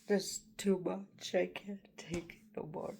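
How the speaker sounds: breaking into a whisper, overwhelmed; it's too much, let the voice fail. Real, not acted. Homeless woman overwhelmed by her situation, failing whisper. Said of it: "I don't mean to get emotional".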